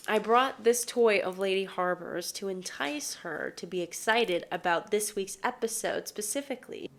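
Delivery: ordinary delivery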